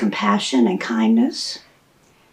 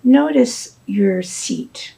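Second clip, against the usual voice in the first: soft guided meditation with long pauses; unhurried, hushed guidance, leaving space after each phrase; guided body scan; 4 dB quieter than usual. Shown as a demonstration. Teacher guiding listeners to check in with the body, soft meditation voice.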